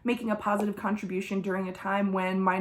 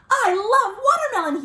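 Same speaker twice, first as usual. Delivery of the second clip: crocodile voice; 12 semitones higher, 5 dB louder than usual. Acted. Crocodile gushing to readers about watermelon, high and delighted. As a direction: savor every word as the croc. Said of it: "he says".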